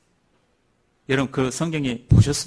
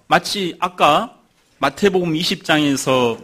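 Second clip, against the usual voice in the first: ordinary talk, nothing marked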